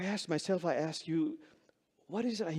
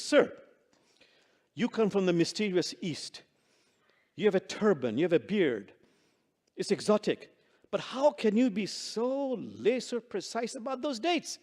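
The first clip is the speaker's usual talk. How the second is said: really annoyed; 5 semitones higher than usual. Acted. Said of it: "Now he's really annoyed".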